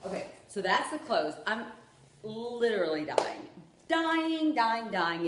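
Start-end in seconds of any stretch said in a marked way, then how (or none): 2.2-5.3 gushing. Real, not acted. Gushing hyperbole over the clothes.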